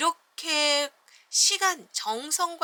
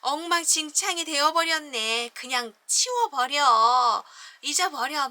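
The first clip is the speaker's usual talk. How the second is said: loud, slow, dismissive kangaroo; 4 semitones higher, 7 dB louder than usual. Acted. Kangaroo tells Taylor to clear it away, loud. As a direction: wave it all away.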